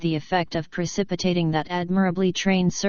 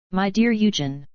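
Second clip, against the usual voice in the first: aghast; 2 semitones higher than usual. Acted. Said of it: "exclaimed Aribert aghast".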